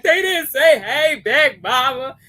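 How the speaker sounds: a hint of a hurt child tattling; imitating little daughter. Little daughter tells mama someone ignored her, whiny. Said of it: "She's like".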